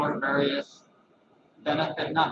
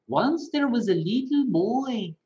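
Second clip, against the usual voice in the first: put-on light Indian accent, pitched higher; storyteller lilt in a mild Indian accent; gentle guru telling a parable in a light Indian accent; Prem Rawat impression; 6 semitones higher than usual. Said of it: "I do the impersonator of Prem Rawat".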